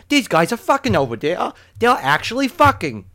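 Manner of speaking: high, loud imitation of a scandalised roommate; mock-incredulous roommate. Roommate realises what the couple are doing, mock incredulous. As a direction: play up the roommate's astonishment.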